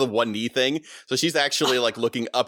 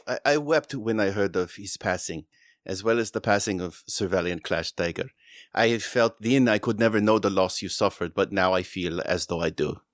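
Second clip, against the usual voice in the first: mild sadness; 3 semitones lower than usual. Acted. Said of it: "her face turns sad".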